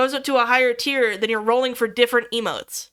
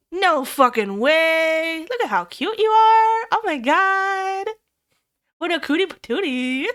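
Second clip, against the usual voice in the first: awestruck gush; 4 semitones higher than usual. Real, not acted. Gasping at a cute model.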